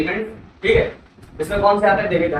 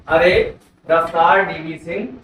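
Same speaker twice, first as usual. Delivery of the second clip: slow mnemonic recital; 3 dB louder, slower than usual. Shown as a demonstration. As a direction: say "अरे रफ्तार DV Singh" slowly, each word spaced. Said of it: "ठीक है". (धीरे-धीरे रटाने वाला अंदाज़)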